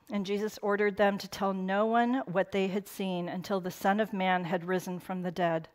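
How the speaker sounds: ordinary talk, nothing marked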